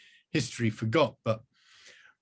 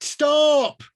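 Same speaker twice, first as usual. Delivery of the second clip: much higher, louder scream; 10 dB louder than usual. Acted. Rose screaming as the wizard smashes her phone. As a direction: shriek it. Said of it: "Rose screamed".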